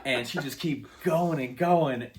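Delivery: laughing while telling it. Real, not acted. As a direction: chuckle through the words.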